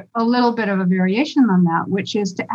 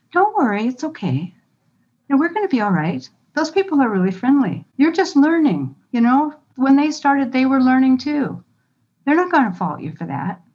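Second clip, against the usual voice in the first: sweet self-talk; 4 semitones higher than usual. Shown as a demonstration. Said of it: "talking sweet to your amygdala just like you would to a little child".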